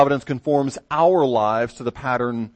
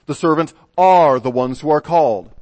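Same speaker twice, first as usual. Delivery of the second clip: a touch of British accent, louder, on "The servant are the ones who are called"; 6 dB louder than usual. Shown as a demonstration. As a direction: say it like a British reader. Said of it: "put it in a British accent".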